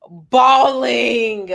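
loud, drawn-out emphatic word; drawn-out bawling. Retold or imitated. Recounting crying during sex, drawn out for emphasis. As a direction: stretch it out for emphasis.

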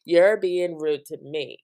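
mock scolding, firmly stated; child's telling-off. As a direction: tell them off like an indignant little child. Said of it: "tell people when they're being rude to her".

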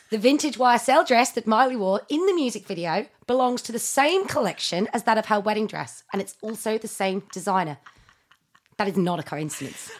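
mock Australian man, lightly done; Australian accent. Shown as a demonstration. Reading dress facts from a thread in a mock Australian accent. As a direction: read it out in a put-on Australian accent. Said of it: "like an Australian man".

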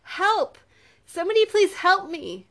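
high, loud cry for help. A narrator's reading. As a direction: call out desperately for rescue. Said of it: "Lily cried out".

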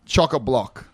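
chock-a-block said slowly and clearly; slow word demo. Shown as a demonstration. Australian host announcing the slang word. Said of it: "one more for ya".

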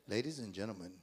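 deep low pilot voice; lightly voiced captain on intercom; airport announcement. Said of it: "I wish I had your voice now".

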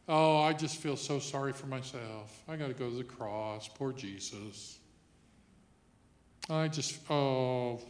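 wallow a little, slowing on the last words; mock self-pity. Preacher imitating a self-pitying Jesus, mock woe. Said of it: "You don't see Jesus in the Bible saying".

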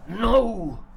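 loud, high shout; shouting again. Shown as a demonstration. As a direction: hit it hard one last time. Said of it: "the three different ways of saying no".

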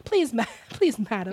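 high mock English accent, laughing; pleading fake-English voice; Oliver. Host begs like the orphan, giggly English accent. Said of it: "sound like Oliver".

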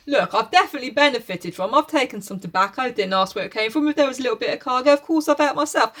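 mock Jem's excuses through laughter; laughing paraphrase.

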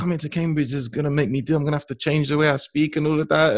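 high-pitched retold complaint; dismayed. Student dreading changing her speech for Cambridge, dismayed.

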